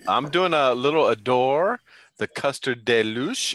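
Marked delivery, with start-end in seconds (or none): 2.3-3.5 "Deluxe" said as duh-LOOSH; unsure pronunciation. Real, not acted. Vaper unsure of a juice name, "Deluxe" said duh-LOOSH. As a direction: say "Deluxe" ending in a long "oosh". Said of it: "Is that how you say it?".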